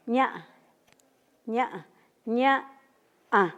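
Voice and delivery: "ña" repetido con tonos; varía el tono de "ña"; tonos mixtecos. Shown as a demonstration. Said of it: "¿No?". (práctica de tono con "ña")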